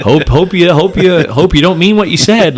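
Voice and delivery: mock meek plea to a threat; mock timid hoping. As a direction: play the pushover hoping. Mocking passive hoping.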